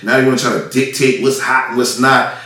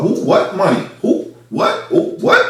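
a touch of feigned confusion, quick clipped questions; mock playing dumb; 7 semitones higher, slower than usual. Imitating TuneCore staff dodging him, mock innocent. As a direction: mimic the company pretending it never heard of the money. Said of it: "act like nothing the fuck".

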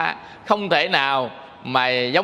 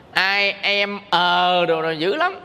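mock broken English; slower than usual. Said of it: "gắng nói tiếng Mỹ".

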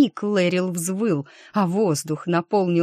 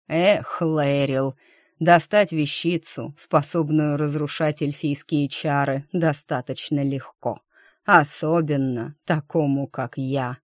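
dark lord; 3 semitones lower than usual. Acted. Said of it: "зловеще произнёс Виер".

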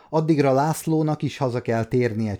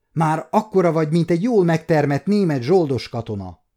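joking; 5 semitones higher, 4 dB louder than usual. Acted. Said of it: "tréfálkozott".

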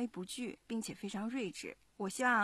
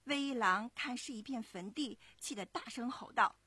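put-on lively storytelling to young listeners; story narration; 3 semitones higher than usual. A narrator's reading. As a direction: narrate clearly and expressively, like a children's story. 妈妈朗读故事旁白. (讲故事的旁白)

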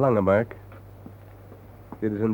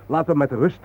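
retold shout; 6 semitones higher, 6 dB louder than usual. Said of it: "heb ik geschreeuwd".

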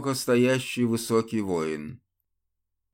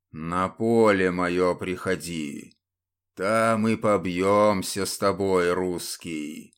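зловещий призрак; 4 semitones lower, slower than usual. Acted. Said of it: "Дьявольски рассмеялся призрак".

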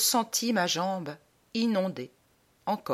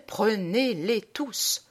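slow, stretched-out entreaty; drawn-out plea; much slower than usual. Acted. Man begs the buyer one last time, drawn-out plea. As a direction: draw each syllable out, pleading.

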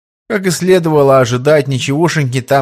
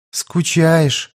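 sympathetic; 4 semitones higher than usual. Acted. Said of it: "с явным сочувствием спросила".

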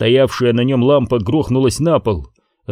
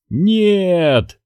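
sharp high cry; yelling; 7 semitones higher than usual. Acted. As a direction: yell to stop him. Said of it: "заорал Ньют".

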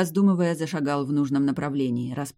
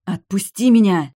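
high, much louder cry to be let go; furious hiss; 6 semitones higher, 11 dB louder than usual. A narrator's reading. Vampiress furiously demanding the hero release her. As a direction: fight free with your voice. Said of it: "шипела высшая".

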